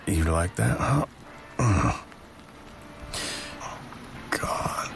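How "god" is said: breathy whispered God. Acted. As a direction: whisper it under your breath. Flustered while driving.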